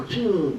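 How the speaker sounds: desis tiruan bernada tinggi yang menurun; tiruan bunyi darah mengucur. Retold or imitated. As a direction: tirukan bunyi cairan mengucur, nada tinggi lalu turun. (tiruan suara darah mengalir)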